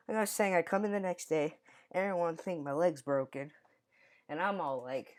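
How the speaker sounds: slightly winded, loud; speaking while catching breath. Real, not acted. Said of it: "sorry if I'm out of breath".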